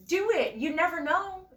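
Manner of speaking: high-pitched imitation of a nudging friend; coaxing friend. Friend urging the speaker to sign up, high and coaxing.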